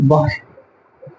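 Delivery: वायु stretched very slowly and softly; वायु said slowly and softly, drawn out like a breath; drawn-out air word. Shown as a demonstration. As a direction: let वायु float out long and quiet. Teacher drawing out the word air.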